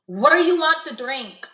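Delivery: half-hearted mock Spanish accent; bad Spanish accent. Imagined bartender taking an order, horrible Spanish accent. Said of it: "I have a horrible Spanish accent".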